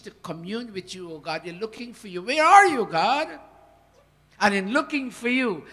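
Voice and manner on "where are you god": high, loud call; crying out to God. Acted. Preacher crying out to God, searching loud.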